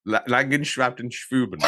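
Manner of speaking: Langenschaftenschruben stumbled into, starting with a false La-; struggling German pronunciation. Real, not acted. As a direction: have a go at Langenschaftenschruben in mangled German, stuttering the first syllable. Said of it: "trying to remember how to pronounce it".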